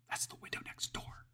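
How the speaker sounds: slow hushed whisper. A narrator's reading. Lydia warning her roommate about the noise, slow whisper. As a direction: breathe it out slowly, afraid of being heard. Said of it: "Lydia whispered".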